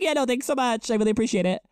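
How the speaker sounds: a hint of a grateful goddess. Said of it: "She was like".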